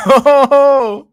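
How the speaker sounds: high laughing oh. Real, not acted. Laughing at noodle comment.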